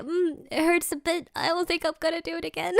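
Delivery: mock understated discomfort; imitated sore swimmer. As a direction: answer as the hurting man, playfully. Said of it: "he's like".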